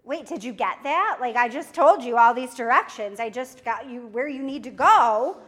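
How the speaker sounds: exasperated caller. Pretend.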